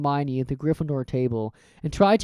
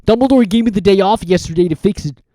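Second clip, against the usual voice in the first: louder, gruff giant; Hagrid's voice; 4 semitones higher, 7 dB louder than usual. Acted.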